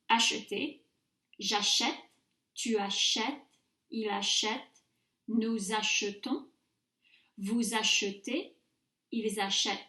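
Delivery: careful, spaced French forms, open è in "achète", weak e in "achetons"; repeat-after-me model. Shown as a demonstration. Teacher lets students hear the pronunciation difference, careful model of "achète" and "achetez". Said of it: "Répétez après moi".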